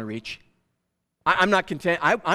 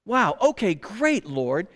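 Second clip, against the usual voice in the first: sarcastic; 3 semitones higher, slower than usual. Acted. Sarcastic complaint to God.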